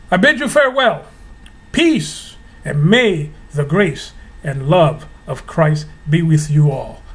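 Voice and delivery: formal churchy farewell blessing; Catholic-sounding blessing. Acted. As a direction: close like a priest ending mass. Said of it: "that sounded just Catholic".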